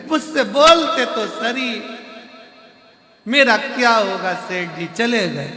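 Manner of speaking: a widow hamming her grief to the guru; wailing wife. Acted. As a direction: cry out to the guru in hammed-up grief. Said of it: "पत्नी बोली".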